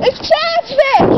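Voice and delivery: very slow, drawn-out correction; slow insistence. Real, not acted. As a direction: spell it out slowly. Correcting slowly again.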